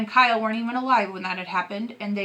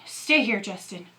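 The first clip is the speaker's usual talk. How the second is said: raspy voice. Acted. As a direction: rasp it out under strain. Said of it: "said Dad in a raspy voice".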